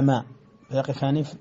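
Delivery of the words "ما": ما stopped on the long a; pause on ma. Shown as a demonstration. Teacher demonstrating Abu Amr's pause on ما. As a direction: hold ما and stop before the lam. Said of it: "يقفان على".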